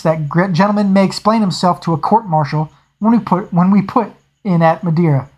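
lightly voiced captain, stern and annoyed; snapped. Captain rebuking a cowardly officer before the crew, mild angry snap. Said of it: "He snapped".

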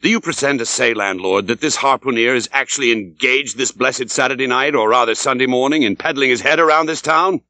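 mild indignant outburst, rising toward the end; a touch of hammed-up anger at the landlord; towering rage. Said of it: "Getting into a towering rage".

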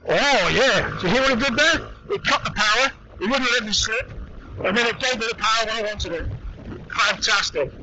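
excited, high-pitched, rushing; buzzing after the launch; thrilled exclaim. Real, not acted. Traction control test on gravel.

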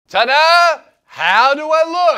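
high, loud showing-off friend. Retold or imitated. Friend with green hair shows off the new look, high and loud. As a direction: present yourself like a proud reveal.

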